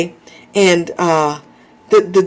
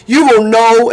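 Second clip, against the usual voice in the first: laughing emphasis; 2 semitones higher, 4 dB louder than usual. Shown as a demonstration. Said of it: "my reply is typically".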